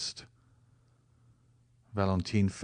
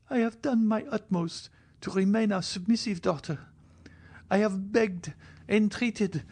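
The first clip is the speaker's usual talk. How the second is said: higher, earnest despairing plea; pleading cry as Valentine; 12 semitones higher than usual. A narrator's reading. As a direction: cry out to heaven, lifted voice. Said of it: "cried she".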